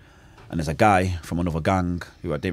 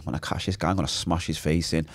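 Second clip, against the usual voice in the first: inner thought; 3 semitones lower, 5 dB quieter than usual. Retold or imitated. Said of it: "in my mind".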